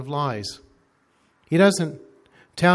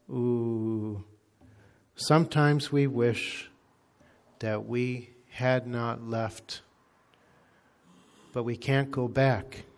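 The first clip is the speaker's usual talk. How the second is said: regretful demon; slower than usual. Retold or imitated. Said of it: "showed great regret and pain".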